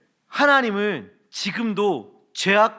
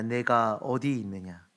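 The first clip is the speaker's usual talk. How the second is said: God gently calling; 5 semitones lower, 6 dB quieter than usual. A narrator's reading. Preacher voicing God seeking the hiding Adam, softly. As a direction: call out to the hiding ones, hushed. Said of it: "찾아와 말씀하십니다".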